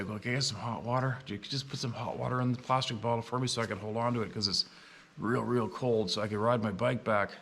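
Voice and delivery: imitating a meek, polite request; mildly timid plea from an older man. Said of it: "asking in a real polite, timid voice".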